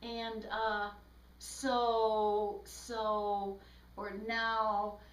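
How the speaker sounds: drawn-out, level filler words; imitation of groping for the next point; stalling fillers. Shown as a demonstration. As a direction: stall between words as if thinking. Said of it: "I'm thinking about my next point".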